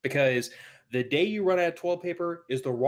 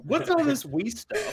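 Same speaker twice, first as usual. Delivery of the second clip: laughing; 13 semitones higher, slower than usual. Real, not acted. Co-host laughing at the story.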